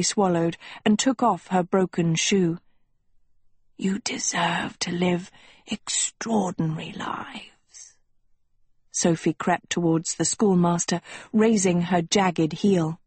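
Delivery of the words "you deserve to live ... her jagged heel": hushed and grand, drawing the words out; schoolmaster. Acted.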